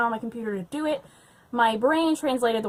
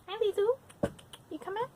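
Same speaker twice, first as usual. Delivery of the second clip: talking to the cat; 9 semitones higher, 7 dB quieter than usual. Real, not acted. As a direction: coo at the kitty as she comes in. Greeting her cat.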